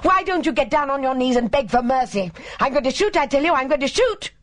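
raving, very high-pitched hysterical fury; high, screaming rant. A narrator's reading. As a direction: scream accusations in a high, unhinged voice. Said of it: "raving in a high, screaming voice".

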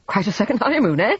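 hearty, pleased with himself; jovial. A narrator's reading. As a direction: beam as you tease. Husband boasting of trip.

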